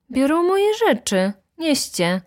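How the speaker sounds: high-pitched order that drops at the end; commanding. A narrator's reading. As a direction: order the porters about. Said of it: "komenderował Leon". (komenderujący ton)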